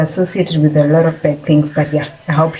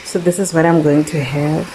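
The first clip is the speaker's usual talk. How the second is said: speaking with a slight lisp from a sore jaw; slower than usual. Real, not acted. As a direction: lisp through a painful jaw. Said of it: "if I'm sounding like I have a lisp".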